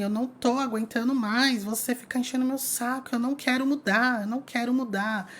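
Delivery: mock fury at normal volume; enfurecida. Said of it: "eu me enfurecia".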